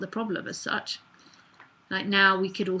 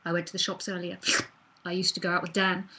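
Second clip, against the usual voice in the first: clingy me voice; faster than usual. Shown as a demonstration. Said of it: "When the me energy's there, it's like".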